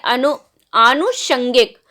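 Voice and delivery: आनुषंगिक said slowly, with a long aa at the start; अनु- broken off, then आनुषंगिक drawn out slowly; careful demo. Shown as a demonstration. Teacher slowly modelling the correct आनुषंगिक. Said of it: "आनुषंगिक होता है".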